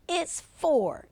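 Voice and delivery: put-on high, loud boyish shout. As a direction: yell it to win the argument. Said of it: "shouted Mike".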